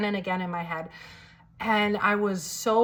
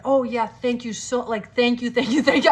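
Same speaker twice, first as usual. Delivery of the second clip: gushing thanks; 3 semitones higher, 5 dB louder than usual. Retold or imitated. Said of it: "I could not stop thanking him".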